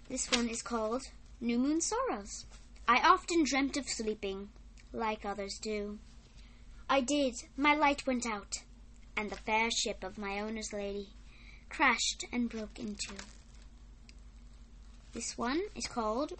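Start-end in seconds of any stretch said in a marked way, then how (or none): 2.9-13.1 put-on measured recital of a children's poem; poem reading. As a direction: read it out in phrases, pausing at line ends. Reads a poem aloud.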